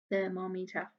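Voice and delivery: "Thermometer" repeated softly, at normal speed. Shown as a demonstration. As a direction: echo "Thermometer" quietly. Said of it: "A long word".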